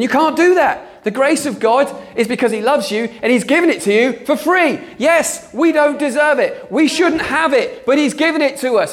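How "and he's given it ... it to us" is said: fervent preaching. Real, not acted. Preacher proclaiming grace to the congregation, raised fervent voice. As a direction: proclaim it with passion.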